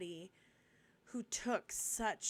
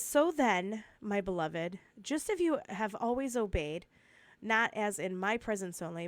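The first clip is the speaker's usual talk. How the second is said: scripture read aloud, louder and deliberate; slow and steady reading; 6 dB louder than usual. Shown as a demonstration. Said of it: "I'm gonna read it slow and steady".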